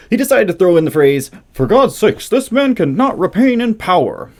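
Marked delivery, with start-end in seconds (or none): 1.5-4.3 high, hammed-up indignant shout; mock indignant yelling. Mocking the president's angry speech phrase, indignant mock yell. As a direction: imitate an angry speech, slowing at the end. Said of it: "gets mad and starts yelling all indignantly".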